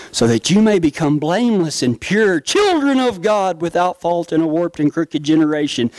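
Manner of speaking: reading scripture in a lightly dreamy, admiring voice; mock rapturous reading. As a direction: read it as if it's beautiful, a touch overdone. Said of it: "Look how beautiful this is".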